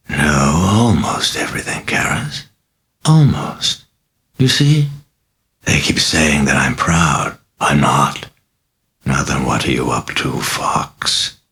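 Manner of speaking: a mocking, sinister possessed girl, purring; a lightly voiced demon, amused and taunting; sly demon voice. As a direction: toy with the priest, silky and sly.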